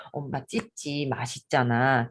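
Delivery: slow, gentle coaxing; tender to toddler. Shown as a demonstration. Mother gently telling toddler about weaning, slow and tender. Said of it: "이렇게 해서".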